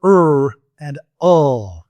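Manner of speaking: drawn-out er and ul, slow; slow r and l sounds. Shown as a demonstration. Teacher drawing out r and l for the class. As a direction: model the r and l sounds slowly. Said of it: "Say right and light".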